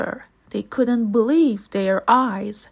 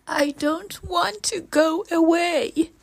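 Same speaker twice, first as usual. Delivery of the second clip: sniffing; 8 semitones higher than usual. Acted. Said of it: "sniffed the boy".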